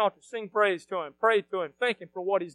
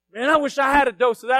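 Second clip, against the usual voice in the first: raised, open-voiced wish; wish said out loud; 3 semitones higher, 8 dB louder than usual. Preacher admitting his old envy to the congregation, wish said aloud. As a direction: say it aloud for everyone to hear.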